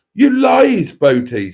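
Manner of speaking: mock accusing shout. Matron's accusation read out.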